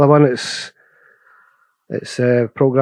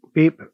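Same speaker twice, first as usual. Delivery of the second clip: quick clipped beep sound; short sharp beep; 4 semitones higher than usual. Shown as a demonstration. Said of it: "just a short, sharp beep".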